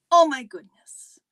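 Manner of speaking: loud breathy whisper of disbelief. Real, not acted. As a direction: hiss it out in a stage whisper. Whispered repeat of exclamation.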